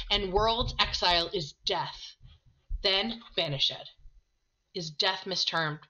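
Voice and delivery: Shakespeare read aloud with rising feeling; dramatic reading. Acted. Teacher reading the scene to the class, dramatic reading. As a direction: lean into Romeo's despair as you read. Reads Romeo and Friar dialogue.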